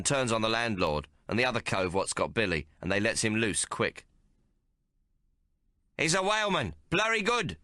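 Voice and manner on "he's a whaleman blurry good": high cheerful shout. Acted. Billy shouts to the whalemen, high and gleeful. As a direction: shout it with glee. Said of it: "Billy shouts".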